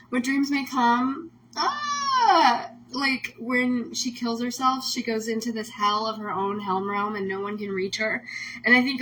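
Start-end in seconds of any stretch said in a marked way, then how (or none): 0.1-4.9 crying laugh, slow; half laughing, half sobbing; laughing through tears. Real, not acted. Host recalls a film about suicide, laugh-crying. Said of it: "makes me wanna cry".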